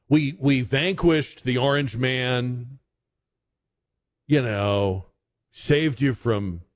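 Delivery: a hint of a pleading, smug politician; mock politician. Mocking president's team.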